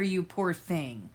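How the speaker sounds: ordinary talk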